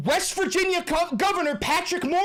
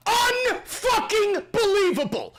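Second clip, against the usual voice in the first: shouted repeat; 3 semitones higher, slower than usual. Real, not acted.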